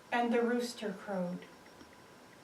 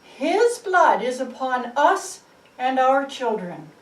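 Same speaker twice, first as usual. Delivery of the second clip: crowd shout; 3 semitones higher, 9 dB louder than usual. Acted. The crowd answers Pilate with a loud defiant shout. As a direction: call it out defiantly as the mob. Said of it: "the people shouted".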